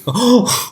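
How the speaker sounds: sudden high gasp; sharp gasp. Acted. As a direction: gasp in mock shock. Mock shock at Sims joke.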